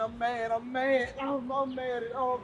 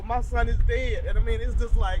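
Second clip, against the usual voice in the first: raised, upset voice on her son's death; louder, pushing the grief out; angry outburst; 7 dB louder than usual. Real, not acted. Grieving mother tells reporters about her son's death, raised angry voice. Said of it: "I'm so mad".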